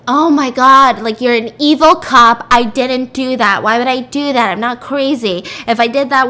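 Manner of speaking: loud indignant protest; acted outrage. Accused woman protesting to evil cop, loud outrage. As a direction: push back loudly, affronted.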